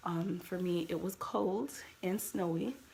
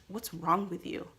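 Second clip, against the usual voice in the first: curt retold challenge, mildly louder on "wrong"; mock a rude, unsympathetic question; with attitude; 3 dB louder than usual. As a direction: imitate a lady with attitude. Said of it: "with that type of attitude".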